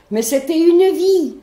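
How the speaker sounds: indignant cry. Retold or imitated. Retorts to the policeman.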